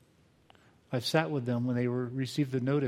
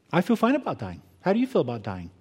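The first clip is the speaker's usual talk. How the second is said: feisty comeback; 2 semitones higher than usual. Retold or imitated. Judy turns question on psychiatrist.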